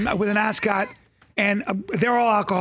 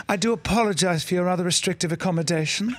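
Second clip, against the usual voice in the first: posh English aristocrat, mock apology; 2 semitones lower than usual. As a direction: ham up a polite English lord. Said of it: "English aristocrats".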